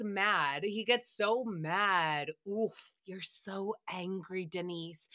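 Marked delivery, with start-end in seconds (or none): 2.5-5.1 quiet mock tease. Mock teasing an angry person.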